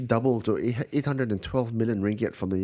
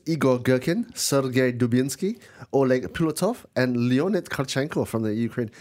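names read in a light mock Russian accent; a half-hearted Russian accent on the names. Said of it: "That's my best Russian accent".

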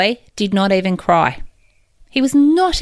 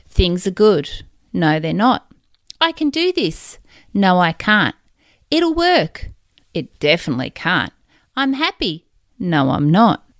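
arguing with yourself; 2 semitones lower than usual. Retold or imitated. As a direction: swing between hope and doubt. Inner back-and-forth self-talk.

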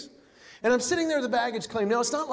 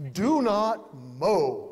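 slow sign read; 3 semitones lower, much slower than usual. Acted. Reading the sign aloud.

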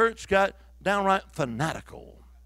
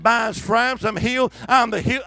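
raised voice, repeating on command; louder declaration; 3 semitones higher, 6 dB louder than usual. Retold or imitated.

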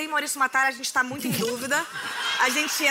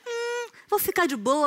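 lazy mock quote; 8 semitones higher, slower than usual. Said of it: "ou você falou".

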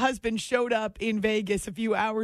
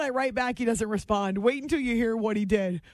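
usual speaking voice

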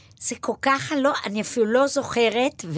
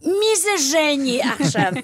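louder, slow, drawn-out; the tenth time she asks; mother asking again, exasperated; fed-up mother; 5 semitones higher, 5 dB louder than usual. Retold or imitated. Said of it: "אמא פולניה וככה".

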